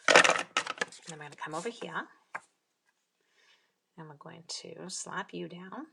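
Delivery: slow, held-breath voice; holding breath. Real, not acted. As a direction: speak while holding breath. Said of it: "I'm totally holding my breath".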